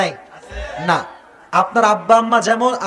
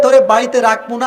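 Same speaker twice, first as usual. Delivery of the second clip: mock angry husband; 2 semitones higher, 5 dB louder than usual. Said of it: "স্বামী কয়ে".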